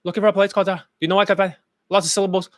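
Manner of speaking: a hint of a fumbling beginner; mock POA accent. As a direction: lightly parody the hesitant asking. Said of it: "that's the P O A accent".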